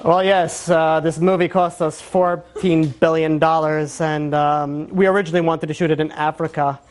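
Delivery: hammed-up studio big shot boasting; pompous director. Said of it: "people behind the scenes talk".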